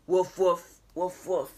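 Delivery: mock barking woofs; puppy woof. Reading to a toddler, playful puppy woofs. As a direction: bark like a puppy. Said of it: "What sound do her babies make?".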